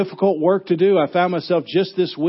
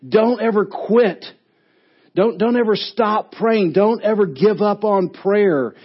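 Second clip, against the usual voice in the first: urgent, raised voice, a touch of a coach yelling; mild coach yell; 5 semitones higher than usual. Retold or imitated. Paul as a coach urging believers, mildly raised. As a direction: push it like a coach urging on a player. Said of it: "he's yelling, saying".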